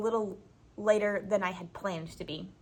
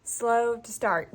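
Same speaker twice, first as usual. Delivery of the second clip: slowly; much slower than usual. Real, not acted. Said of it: "feeling a little bit like my smartboard".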